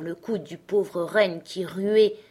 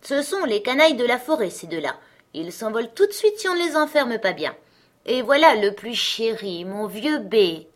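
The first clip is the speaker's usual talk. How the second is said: put-on a bossy young robber girl, a touch higher; 4 semitones higher, 4 dB louder than usual. Robber girl inviting Gerda to bed, a hint of bossy. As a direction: play the wild robber girl, lightly.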